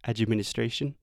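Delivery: "administration" with no added vowel after d; no "chi" in "administration"; correct administration. Shown as a demonstration. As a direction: say "administration" cleanly, d straight into m. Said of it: "you want to say".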